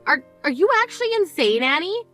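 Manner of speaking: stunned fury at her selfishness; outraged disbelief. Acted.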